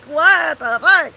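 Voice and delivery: slow, stretched-out "what the fuck"; drawn-out disbelief. Retold or imitated. Retelling her shock at the slave diagram, slow stretched disbelief. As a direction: let the shock drag out slowly.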